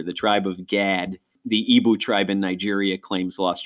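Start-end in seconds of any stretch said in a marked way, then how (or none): 0.0-1.2 Rochester accent. Shown as a demonstration. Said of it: "So I'll use Rochester here".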